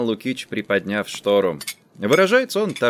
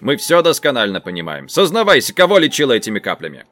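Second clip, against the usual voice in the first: louder, demanding questioning; severe interrogation; 4 dB louder, faster than usual. Acted. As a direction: press her for a confession. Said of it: "сурово искривив рот".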